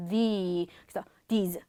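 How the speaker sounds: these with a drawn-out "ee"; long vowel. Shown as a demonstration. Teacher checks vowel length, these held long. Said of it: "길게 발음을 해주시는 거".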